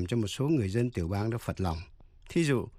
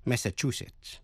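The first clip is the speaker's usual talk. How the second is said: "Massachusetts" stressed on CHU, the third syllable. Shown as a demonstration. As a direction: say mass-a-CHU-setts for "Massachusetts". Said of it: "Nhấn mạnh vào vần thứ ba". ("Massachusetts" nhấn vào vần thứ ba CHU)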